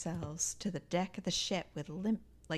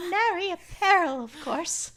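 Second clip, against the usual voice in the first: boastful bravado; 11 semitones higher, 5 dB louder than usual. Acted. Voiced character boasting.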